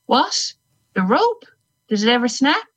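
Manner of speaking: high, quick eager questions. Acted. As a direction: ask it with sudden curiosity. Narrator voices eager questioner.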